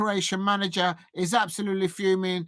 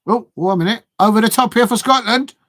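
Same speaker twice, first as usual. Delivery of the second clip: excited; 3 semitones higher, 8 dB louder than usual. Real, not acted. Excited match-watching outburst.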